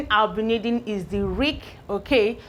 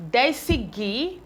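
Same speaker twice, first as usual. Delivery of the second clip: slow blending; 3 semitones higher, slower than usual. Shown as a demonstration. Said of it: "teacher blending syllables slowly".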